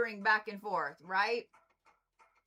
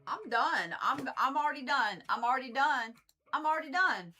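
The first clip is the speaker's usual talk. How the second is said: exasperated; 3 semitones higher than usual. Real, not acted. Reader reacting to a bad card, exasperated.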